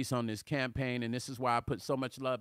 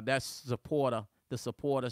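a hint of New Jersey on "supporter"; New Jersey accent. Shown as a demonstration. Host showing off his playful New Jersey accent. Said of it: "New Jersey accents".

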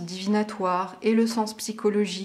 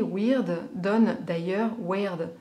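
English accent; much slower than usual. Shown as a demonstration. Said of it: "merci pour mon accent".

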